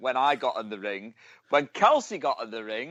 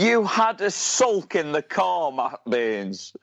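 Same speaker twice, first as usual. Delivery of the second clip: slow, higher, drawn-out teasing; teasing accusation; 4 semitones higher, 3 dB louder, slower than usual. Real, not acted. Host ribbing co-host over a sulk, teasing accusation. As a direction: accuse him with drawn-out glee.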